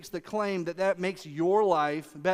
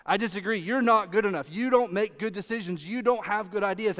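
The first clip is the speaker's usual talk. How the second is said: imagined accusation; 3 dB louder than usual. Retold or imitated. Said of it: "What you heard in your brain".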